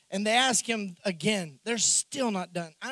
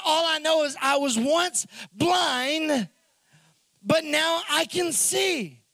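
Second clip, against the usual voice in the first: preaching climax; 4 semitones higher, slower than usual. Real, not acted.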